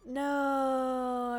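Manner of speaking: loud, long-held groan of no; drawn-out cry of dismay. Real, not acted. Player who forgot about that kid, dismayed cry. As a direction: stretch it out in dismay.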